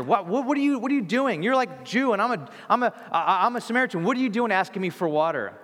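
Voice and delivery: high, flustered disbelief; shocked woman. Retold or imitated. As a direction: stammer it out, caught off guard. Woman's shocked reply to Jesus.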